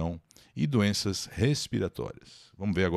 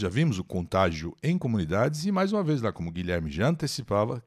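ordinary talk, nothing marked

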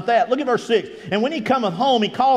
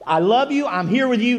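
joyful; 4 semitones higher than usual. Retold or imitated. Repeating the three things, raised.

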